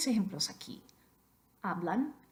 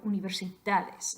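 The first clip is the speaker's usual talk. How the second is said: universidades with an exaggerated stress on "da". Shown as a demonstration. Teacher admits some exageración, universidades stressed on "da". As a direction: overdo the "da" in universidades. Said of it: "exageración".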